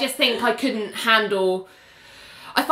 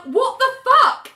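mock outrage; 3 dB louder than usual. Outraged reaction in retelling.

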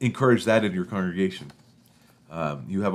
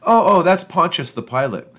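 put-on higher and louder, eager little boy; excited child; 7 semitones higher, 6 dB louder than usual. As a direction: blurt it out like a proud kid. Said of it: "Kyle explained".

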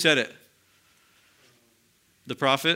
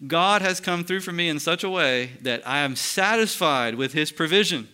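higher, slowed, lifted voice of fulfilment; joyful paraphrase; 4 semitones higher than usual. Acted. Simeon telling God his hopes are met, lifted and joyful. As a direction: let it swell with satisfied joy.

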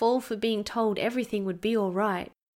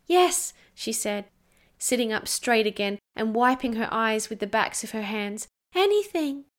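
put-on eager little girl. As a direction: jump at the chance.

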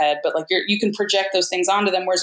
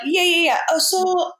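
mock casting director; 9 semitones higher than usual. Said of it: "they're like".

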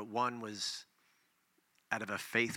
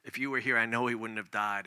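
heartfelt plea. Shown as a demonstration. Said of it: "you're pouring your heart out".

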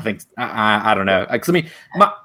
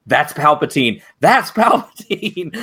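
mock scream; 4 semitones higher, slower than usual. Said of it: "jumped off the couch and screamed".

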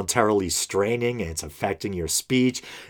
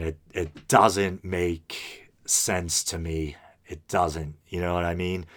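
slow and softer, fighting back real tears; holding back tears; 4 semitones lower, 5 dB quieter, slower than usual. Real, not acted. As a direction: let the words slow down as the tears come close. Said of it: "I'm almost gonna cry".

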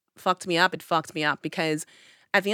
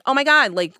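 frantic; 4 semitones higher, 4 dB louder than usual. Retold or imitated. Frantic call to ghosting boyfriend.

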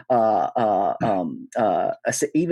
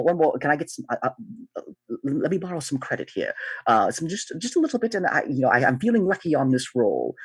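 lightly voiced, higher begging gambler; a hint of a nervous debtor wheedling for credit; pleading Buttons; 3 semitones higher than usual.

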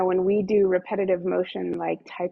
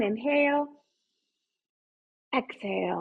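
ocean throat breathing; 2 semitones higher, 4 dB quieter than usual. Shown as a demonstration. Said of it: "fogging the mirror".

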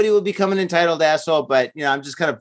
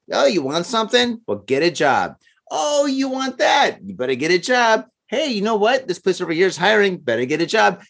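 stern parent; 2 semitones higher than usual. Retold or imitated. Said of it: "the way I was raised".

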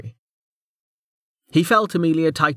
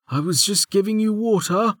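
high-pitched character voice, protesting innocence; defensive reassurance; 10 semitones higher than usual. A narrator's reading. A man who was giving her water, defensive reassurance. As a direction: explain yourself in a high, anxious voice.

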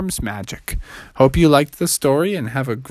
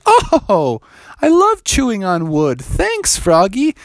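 higher, grateful beaver; a happy beaver thanking his friend; 7 semitones higher, slower than usual. Acted.

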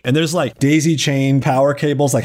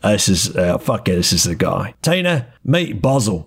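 Millie's voice; 3 semitones lower than usual. Acted. Millie answering Tina in character.

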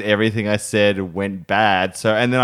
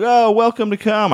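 high, louder hammed-up hype; mock hyped MC; 11 semitones higher, 4 dB louder than usual. MC greeting the showcase crowd, high loud hype. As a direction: burst on stage selling big energy. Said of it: "I'm like".

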